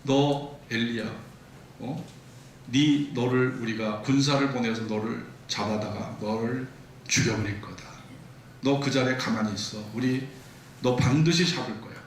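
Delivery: lightly voiced threatening Jezebel; a hint of a threatening queen; Jezebel's threat. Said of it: "공갈 협박을 합니다".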